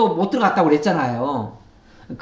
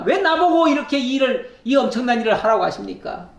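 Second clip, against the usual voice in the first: mock exasperation; 4 semitones higher than usual. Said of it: "모세가 엄청 화가 났어요".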